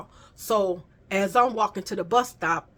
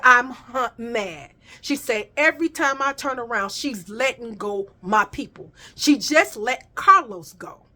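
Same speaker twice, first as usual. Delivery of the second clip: imitating an indignant boss-like ally, with punched words; retold anger; 3 dB louder than usual. Job program woman fuming about her people being fired, mildly angry. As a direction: retell her mad outburst, hitting key words. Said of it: "But I'm mad".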